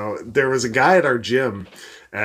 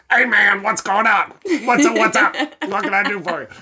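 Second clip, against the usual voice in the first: much higher, overly chummy greeting; crazy gym guy voice; 8 semitones higher than usual. Retold or imitated. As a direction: imitate the odd guy from the gym in a high voice. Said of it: "he talks like this".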